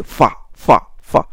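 fa said heavy and thickened; the wrong, fattened fa; thick fa. Shown as a demonstration. Teacher demonstrating the wrong thick fa to students. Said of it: "ça va vous donner une fa grossie".

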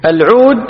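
العود with a long u, al-'ud; damma on ع. Shown as a demonstration. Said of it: "بضم العين". (العود بضم العين)

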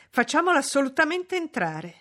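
high, loud eager urging; exclaiming. A narrator's reading. Young man wants the witch brought in, exclaiming. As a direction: insist with excitement. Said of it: "esclamò Frederick Lynn".

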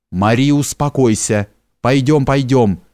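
usual speaking voice

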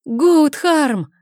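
high, loud shout of a name. A narrator's reading. Sister shouts for her vanished brother, high and loud. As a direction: cry the name out with all her voice. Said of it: "закричала Рагнхильд".

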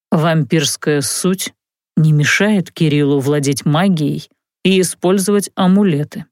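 low, slow mage explaining; willing explanation. Acted. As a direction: calmly lay it out. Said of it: "пояснил Локи охотно".

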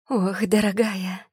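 high, slow, twittering coo; chirping lady. A narrator's reading. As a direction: chirp it sweetly like a delighted lady. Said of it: "прощебетала она".

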